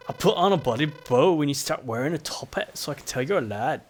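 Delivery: badly faked Scottish lilt; terrible Scottish accent. Islander retorting to a rude visitor, bad Scottish accent. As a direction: do a rough, guyish Scottish accent. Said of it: "trying to do a terrible Scottish accent".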